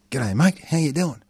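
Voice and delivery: put-on thick Aussie accent, high and bright; broad Australian accent. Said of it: "in my thickest Australian accent".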